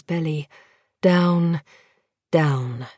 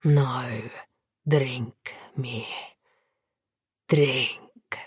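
whisper yelling; 4 semitones lower, 5 dB quieter, much slower than usual. Acted. Vampire whispers urgent command.

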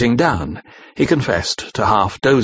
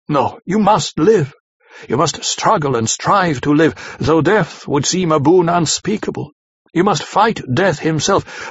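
impassioned plea; 4 semitones higher than usual. Acted. Van Helsing's impassioned plea.

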